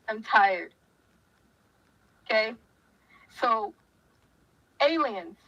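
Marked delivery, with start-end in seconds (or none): 0.1-0.7 tired. Real, not acted.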